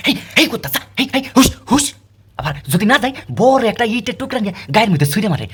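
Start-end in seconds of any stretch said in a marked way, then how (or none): 0.1-1.9 shooing humans. Retold or imitated. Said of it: "এই মনুষ্য জাতি কয়".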